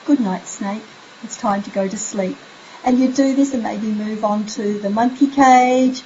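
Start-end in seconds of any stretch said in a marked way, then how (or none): 0.0-2.4 soft bedtime goodnight. Shown as a demonstration. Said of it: "have your child say".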